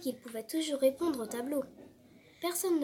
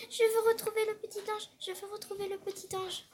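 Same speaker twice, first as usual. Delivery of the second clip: thinking to himself; 8 semitones higher than usual. A narrator's reading. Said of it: "en pensant".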